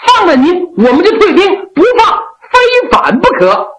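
lightly laughing while pressing the emperor's hand; laughing bargain. Acted. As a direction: laugh as you lay out the deal. Officer bargaining for his brother.

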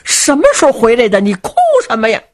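put-on old lady asking. Old lady puzzled by crying.

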